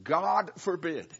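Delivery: slow, weighty God forbid, mild mock shout; Paul's emphatic cry, understated. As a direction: lean hard on God forbid, slowly. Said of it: "It's like Paul is shouting out".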